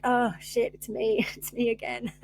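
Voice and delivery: a self-mocking chuckle of realisation; super lighthearted. Realising she's the problem, lighthearted laughing. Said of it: "I'm saying that in a super lighthearted way".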